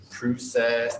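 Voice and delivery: Canadian "process" with a long O; imitated Canadian pronunciation; Canadian accent. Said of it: "any Canadian adult say process".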